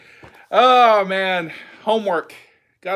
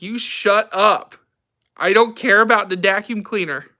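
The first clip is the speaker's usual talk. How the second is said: voicing the dog; 4 semitones higher, 6 dB louder than usual. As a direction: speak as the grumpy dog.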